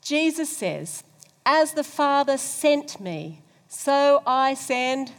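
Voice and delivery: congregation reading aloud slowly; slow loud group recitation; many voices in unison. Real, not acted. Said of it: "let's read it together".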